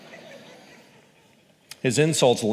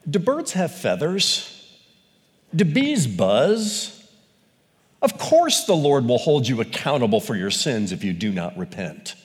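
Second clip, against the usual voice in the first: mock sarcasm. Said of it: "the Lord gets sarcastic".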